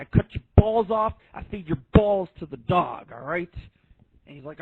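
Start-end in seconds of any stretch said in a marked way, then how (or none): 0.0-3.5 a mock mobster threat, louder at the start; mafia talk. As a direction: play the son doing a tough-guy mobster. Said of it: "he starts talking like he's the mafia".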